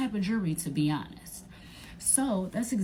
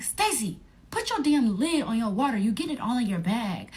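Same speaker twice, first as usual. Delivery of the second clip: mock scolding; 4 semitones higher, 4 dB louder than usual. Scolding friend over spilled water.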